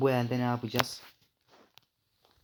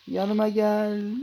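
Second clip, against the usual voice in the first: slow, loud, higher "Yanıma gel" stretched out; drawn-out call; 9 semitones higher, 7 dB louder, much slower than usual. Pretend. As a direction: drag "Yanıma gel" out slowly. Calling the shark again.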